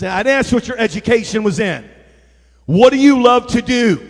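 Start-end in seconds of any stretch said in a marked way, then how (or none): 2.6-4.0 louder, firm preaching delivery; emphatic question. Real, not acted. Preacher challenging the church, emphatic. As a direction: press the question on them.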